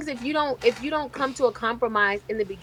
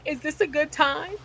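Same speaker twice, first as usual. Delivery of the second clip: timid client voice; 4 semitones higher than usual. Retold or imitated. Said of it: "she's like".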